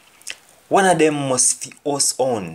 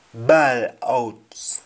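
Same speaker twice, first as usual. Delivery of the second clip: whispered gloss. Shown as a demonstration. Teacher whispers "Bawl out" to the class, hushed and unvoiced. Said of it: "what is to scream in Jamaican".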